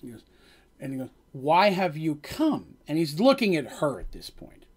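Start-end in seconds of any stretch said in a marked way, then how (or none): 1.3-2.8 slow, halting foreign guard; lightly voiced guard struggling with words; broken common speech. Guard apologizing to Dandy in broken common, slowly. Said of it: "the way he's talking, it's very broken".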